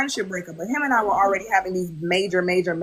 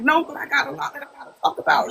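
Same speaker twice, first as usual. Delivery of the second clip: higher, laughing protest; laughing self quote; 6 semitones higher than usual. Retold or imitated. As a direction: laugh through the rush to talk. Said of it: "I'm like".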